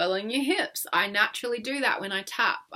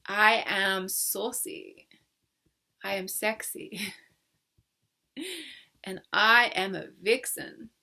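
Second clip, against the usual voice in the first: sultry affirmation; slower than usual. Shown as a demonstration. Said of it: "say after me".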